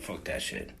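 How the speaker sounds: unvoiced, low whispered curse. Real, not acted. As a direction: mutter it under breath. Muttering to himself.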